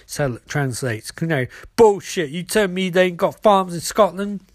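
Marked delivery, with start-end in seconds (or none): 1.7-4.4 scornful outburst. Acted. Canary calls out a lie.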